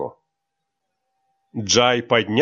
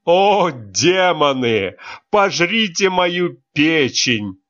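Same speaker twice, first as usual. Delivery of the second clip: sobbing with laughter; 5 semitones higher, slower than usual. Acted. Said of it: "Руслан всхлипывал".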